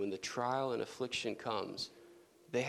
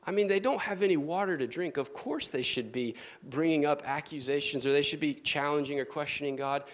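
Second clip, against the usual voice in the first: mock objection. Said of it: "if you sit here and think".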